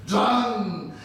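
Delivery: long drawn-out imitated tool noise; felling noise. Storyteller showing trees being felled, imitated noise.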